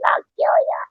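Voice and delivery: high, hissed mock threat; mock threatening whisper. Mother threatening her daughter, a mock whispered threat. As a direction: whisper it like a hammed-up menace.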